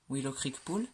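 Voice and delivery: a clumsy, self-mocking English accent on "Willow Creek Pool"; bad English accent. Shown as a demonstration. Announcing the Sims pool name to viewers in a bad English accent. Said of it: "j'ai un accent anglais, mais tellement merdique".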